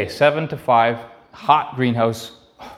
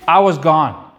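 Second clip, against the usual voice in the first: first take louder and emphatic; 3 semitones higher, 5 dB louder, slower than usual. Real, not acted. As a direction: announce it firmly.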